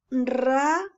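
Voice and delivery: "radio" split into slow syllables, ra... dio. Shown as a demonstration. Teacher showing a pupil how to read in syllables, broken up. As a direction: sound out "radio" in syllables, rolled R first. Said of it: "puedes leer en sílaba".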